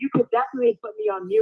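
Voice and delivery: high, fast sassy drag queen voice. Acted. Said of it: "you was giving me the T string voice".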